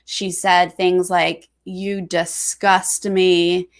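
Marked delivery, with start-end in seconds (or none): 1.7-3.7 slow, low, drawn-out mock drama; imitating Vic, heavy and slow; dramatic Vic quote. Podcaster retelling Vic's house-meeting line, slow mock drama. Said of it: "in such a dramatic".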